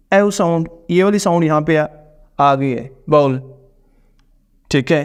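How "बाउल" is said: बाउल said with a clear long oh glide; teacher models बाउल, stretching the oh sound; bowl demo. Shown as a demonstration. Teacher demonstrating the vowel of bowl to students, clearly. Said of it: "ये बाउल है".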